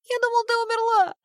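put-on high little boy voice, tearful; a frightened child sobbing his reproach. A narrator's reading.

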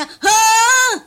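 high, loud surprised huh; startled huh. Acted. Detective startled at the dead man. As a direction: jolt up in surprise.

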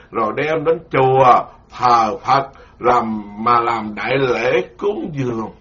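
slow, measured scripture reading; solemn recital of the scripture; slow sutra reading. Acted. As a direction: read the sutra passage deliberately to the congregation. Rereads the sutra passage.

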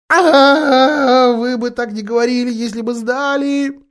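high, tearful, sniffling voice; sobbing. A narrator's reading. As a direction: speak through sobs. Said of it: "отвечал, всхлипывая".

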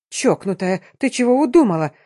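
panicked screech at an armed woman; shrieking. Acted. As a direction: squeal it out in terror. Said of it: "заверещала Самия".

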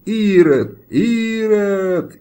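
high, loud accusing yell, repeated; crowd shouting. A narrator's reading. The whole square shouts at the executioner, loud accusing yell. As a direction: hurl the word at him. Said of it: "закричала площадь".

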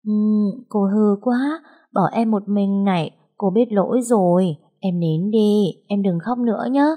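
tender, pleading hush-hush; soothing crying baby. Acted. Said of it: "Tôi dỗ mãi không nín được".

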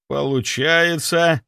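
drawn out, weighing each sound; slow and suspicious; slowly. A narrator's reading. Clinic head drawing conclusions, slow and deliberate. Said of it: "медленно произнёс Сомов".

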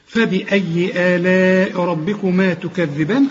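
slow, measured tajweed chant; Quran recitation. Shown as a demonstration. Teacher reciting a verse for students, slow Quran recitation. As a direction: recite with long held vowels.

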